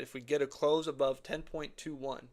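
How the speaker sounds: slight real crack in the voice. Real, not acted. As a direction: let the voice crack a little toward the end. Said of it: "my voice is cracked a little bit".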